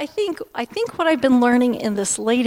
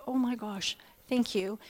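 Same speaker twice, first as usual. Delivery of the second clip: hushed gratitude; 10 dB quieter than usual. Retold or imitated. Touched by a powerful word.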